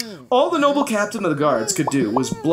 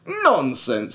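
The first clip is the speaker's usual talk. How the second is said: snorted; 4 semitones lower than usual. Acted. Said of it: "snorted the captain".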